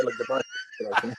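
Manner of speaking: squeaky mock repeat of "the biceps okay"; mock high voice. Shown as a demonstration. Brushing off the injury to the hosts in a squeaky voice. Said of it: "repeats the line in another voice".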